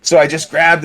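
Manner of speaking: high, laughing through the words; helpless amusement, pitch jumping up; real laughing speech. Real, not acted. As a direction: crack up while telling it. Laughing at his own French story.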